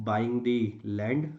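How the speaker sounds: slow dictation of a written point; dictating. Shown as a demonstration. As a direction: read it out slowly as you write. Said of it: "हम यहाँ पे लिख सकते हैं".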